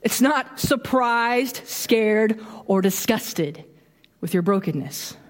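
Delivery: slow and deliberate, each word weighed; slow down and let it land; slow, weighty restatement; slow emphatic repeat. Acted.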